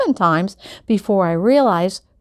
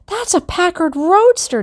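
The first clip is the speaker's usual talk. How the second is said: high, eager shout over a crowd; dad shouting over a crowd; excited yell; 12 semitones higher, 3 dB louder than usual. A narrator's reading. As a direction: call out over the cheering, a bit higher. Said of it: "Dad yelled to me".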